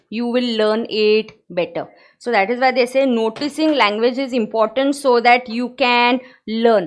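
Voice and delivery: slow, careful reading of a textbook definition; slow reading aloud. Acted. Teacher reading the notes slowly to her students. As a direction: read each phrase out slowly for the class.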